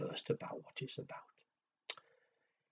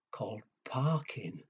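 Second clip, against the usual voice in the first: whispered aside; 2 semitones lower, 5 dB quieter than usual. Acted. Aside to the children.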